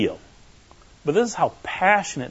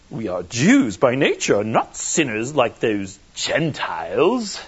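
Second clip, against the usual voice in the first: slow, lower, snooty and superior; snooty accent; 5 semitones lower, slower than usual. Shown as a demonstration. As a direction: look down your nose at the Gentiles. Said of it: "Maybe we need to do this with a snooty accent".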